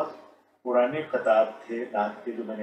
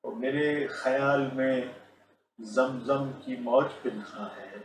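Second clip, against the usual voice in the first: stately nazm recitation. Shown as a demonstration. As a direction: recite each line with dignity. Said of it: "میں آپ کی خدمت میں دو قطعات".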